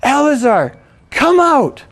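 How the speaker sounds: high, loud retold summons; commanding shout. Rabbi summons the dead man from the grave, commanding shout. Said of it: "he shouted, it says".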